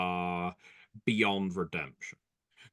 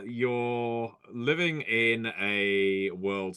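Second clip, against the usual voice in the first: horror trailer voice; 2 semitones higher, 3 dB louder, much slower than usual. Pretend. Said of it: "that should be the opening to a movie".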